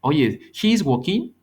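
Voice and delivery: slow statement with a hopeful rising lilt; mock questioning tone on a statement. Shown as a demonstration. Teacher showing the wrong way to ask, mock questioning. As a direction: say it flat but try to make it sound like a question. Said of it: "no puedo decirle a alguien".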